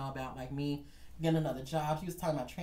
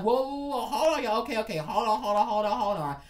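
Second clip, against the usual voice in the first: loud, higher, rapidly repeated plea to stop; urgent intervention; 5 semitones higher, 6 dB louder than usual. Retold or imitated. Gwen stepping between the two, urgent raised-voice imitation. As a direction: jump in to break up a fight.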